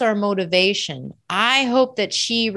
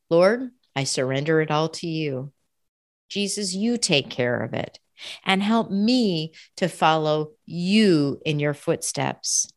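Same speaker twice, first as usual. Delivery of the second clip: prayer; 3 semitones lower than usual. Real, not acted. Preacher surrendering to Jesus, in prayer. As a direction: hand it over to God in measured prayer. Prays aloud mid-sermon.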